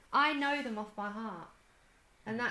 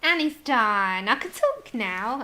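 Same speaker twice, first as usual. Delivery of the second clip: loud; 12 dB louder, slower than usual. Real, not acted. Bursts out after long silence.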